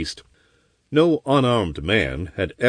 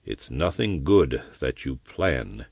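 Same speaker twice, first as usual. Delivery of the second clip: slow; 6 semitones lower, 5 dB quieter than usual. Acted. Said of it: "he said slowly".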